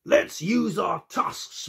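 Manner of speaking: high, slow, loud elephant bellow. Acted. Elephant to the animals, a slow bellow. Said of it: "bellowed Elephant".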